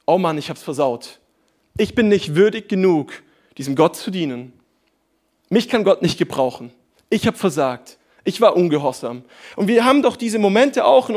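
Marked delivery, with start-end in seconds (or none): 0.0-9.2 dejected inner voice. Retold or imitated. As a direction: sigh it out like giving up. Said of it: "auch wir glauben ganz oft".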